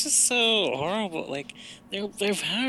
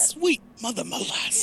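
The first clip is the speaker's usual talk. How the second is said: quoting Flynn; 7 semitones higher than usual. Retold or imitated. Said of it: "Flynn's line about molasses".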